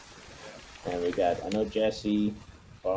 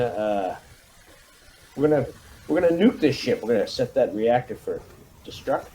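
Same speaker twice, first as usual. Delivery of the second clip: a hint of a rousing marine commander, pitched up; brief the troops like a hard-nosed CO; commanding officer briefing; 3 semitones higher, 3 dB louder than usual. Commander briefing his marines before the rescue mission, lightly rousing.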